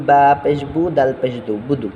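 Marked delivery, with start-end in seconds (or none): 1.7-1.9 বুদু with both vowels short; no stretch. Shown as a demonstration. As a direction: say বুদু without drawing it out. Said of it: "এটাই কোনো টান নাই". (বুদু টান ছাড়া পড়া)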